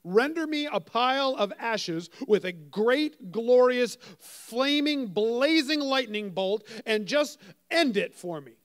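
lightly voiced, worn-out Moses begging to be done; a fed-up leader pleading with God; exasperated Moses. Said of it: "here's Moses' prayer".

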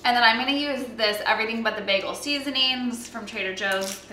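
ordinary talk, nothing marked

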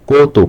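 slow "কত" said as koh-to; rejected o-vowel. Shown as a demonstration. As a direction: round the first vowel of "কত" to a long "oh". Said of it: "অ এর মতো উচ্চারণ করছি ওকারের না".

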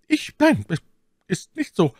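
high, firm lady's voice; firm denial. A narrator's reading. Milady denies the rendezvous to D'Artagnan, firm. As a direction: deny it firmly and with composure. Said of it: "mit so fester Stimme und solcher Ruhe".

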